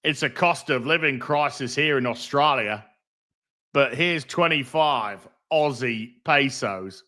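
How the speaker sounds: put-on Australian accent; light mock-Australian voice; Aussie accent. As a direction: read the message in an Aussie accent. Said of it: "We've got to do the Aussie accent".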